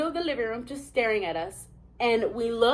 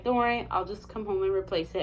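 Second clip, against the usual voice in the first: lower, softer imitation of calm husband; peaceful reassurance; 4 semitones lower, 6 dB quieter than usual. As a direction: play the unbothered, reassuring husband. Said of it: "he has such a peaceful aura".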